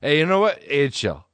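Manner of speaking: slurry drunk repeating himself, lightly acted; mock drunk pleading to be left alone; drunk friend. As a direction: imitate a drunk pal looping on the same few words. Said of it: "he was so drunk, and he would just be like".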